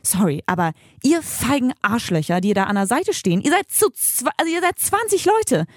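rising pitch, building furious indignation at bystanders; indignant outburst. Retold or imitated. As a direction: let the anger climb as you accuse the cowards. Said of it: "da werde ich richtig krass emotional".

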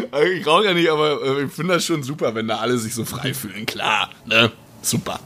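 raspy morning smoker's voice; hoarse from cigarettes; smoker's rasp. Real, not acted. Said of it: "mit der übelsten Raucherstimme".

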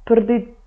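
"Prdit" with the first syllable carried by r alone; "Prdit" with no vowel between p, r and d; vowelless Croatian cluster. Shown as a demonstration. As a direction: run "Prdit" from p straight into a rolled r. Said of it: "in eurer Sprache nicht rein".

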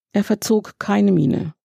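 ordinary delivery

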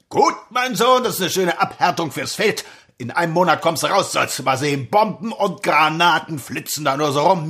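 gruff, smug barracks sergeant; drill sergeant. Acted. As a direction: boast and bully like a sergeant. Sergeant chats and gives orders.

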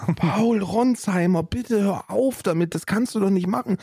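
mock pleading. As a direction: beg him to stop, exasperated. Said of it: "Und ich so".

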